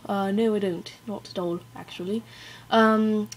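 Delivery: amateur British accent, put on; attempted British accent. Shown as a demonstration. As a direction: answer with an imitation British accent. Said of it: "attempt a British accent".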